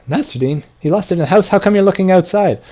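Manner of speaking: acted exasperated friend; baffled disbelief. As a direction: question it in rising, puzzled disbelief. Friend's baffled question in parable.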